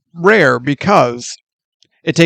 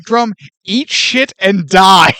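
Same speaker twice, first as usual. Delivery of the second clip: slow, deliberate cranky put-down; slowed mock curmudgeon retort; a band snapping back; 2 semitones higher, 4 dB louder, slower than usual. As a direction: spit it out like a grumpy old lady. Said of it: "is like".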